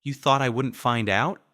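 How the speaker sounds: a menacing hiss of accusation; hissed confrontation. A narrator's reading. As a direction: spit it at him through anger. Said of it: "I hissed".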